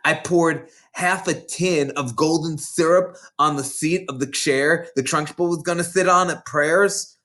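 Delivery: a lightly voiced big schoolgirl, gloating; bossy older girl. Hortensia sneering at the new girls, mildly voiced. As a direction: relish scaring the little ones. Boasting of her prank.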